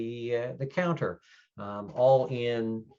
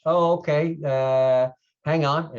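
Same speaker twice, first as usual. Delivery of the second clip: put-on louder, higher young clerk voice; raised, hesitant young-guy voice; young desk guy; 5 semitones higher, 9 dB louder, slower than usual. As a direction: play a casual young guy at the front desk. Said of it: "this young guy, kinda shaggy, bobbed hair, goes".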